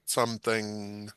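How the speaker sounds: "something" drawn out slowly, weight on "thing"; stress on THING. Shown as a demonstration. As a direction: lean slowly on the second half of "something". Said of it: "emphasis on the thing".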